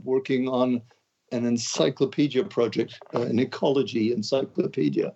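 ordinary talk, nothing marked

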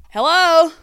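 high, loud bright hello; loud sing-song phone greeting; calling out hello. Real, not acted. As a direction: answer the caller with a shout. Answering call.

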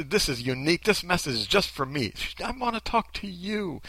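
hushed imitation of heartfelt intimacy; mock sincere. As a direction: softly act out being personally addressed. Voicing fan, then her sincere line.

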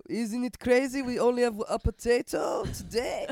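loud, high put-on Ukrainian accent, hammed up; a bad, hammed-up Ukrainian accent shouted for laughs; mock Ukrainian accent. Podcaster mocks Ukrainians with a bad Ukrainian accent, loud and high. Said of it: "I can't even do the accent".

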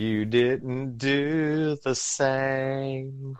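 very slow, drawn-out robotic line; Jetsons impression. Friend does a Jetsons voice for the group, slow and drawn out. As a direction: stretch each word like a cartoon robot. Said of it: "Here's my Jets impersonation".

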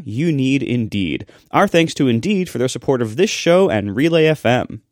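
upbeat podcast sponsor read. Acted. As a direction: sell it like a radio ad. Reads sponsor ad.

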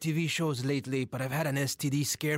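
high, hammy telenovela narrator; telenovela character voice. Retold or imitated. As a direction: ham up a soap star announcement. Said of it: "he talked like this".

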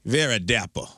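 put-on dapper genteel Southern accent; high-born Southern accent. Riffing with co-hosts, high-born Southern accent. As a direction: give it Southern gentility. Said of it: "the high-born Southern accent".

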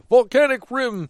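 big, slow, booming call; booming announcer voice. Acted. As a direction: boom it out like an arena announcer. Announcer-style call of stage name.

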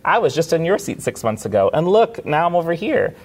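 proudly announcing her success; excited quote. Retold or imitated. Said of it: "telling people".

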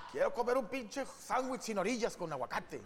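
hammed-up hungry whine for a sandwich; mock excited craving. Husband back from the airport craving fast food, hammed-up excitement. Craving Carl's Junior on arrival.

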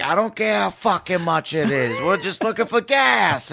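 lightly hammed-up Boston gripe; Boston accent. Drunk passenger asks toll guy for gas, mock Boston accent. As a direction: put on a brash Boston voice, mildly heated. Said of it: "speaking in my best Boston accent".

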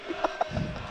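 short breathy nervous laugh; a quiet uneasy laugh. Real, not acted. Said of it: "it's an incredibly nervous laugh".

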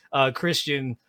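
ordinary talk

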